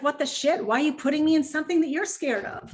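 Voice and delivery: lightly voiced puppy asking why. Puppy confused by owner's fear, lightly voiced. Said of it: "The puppy's like".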